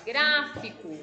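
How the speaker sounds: Gráfico with a firm "grá"; stress on first syllable. Shown as a demonstration. Teacher confirming the strong syllable for pupils, emphatic. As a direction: lean on the opening syllable of Gráfico. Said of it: "o gra é a sílaba mais forte".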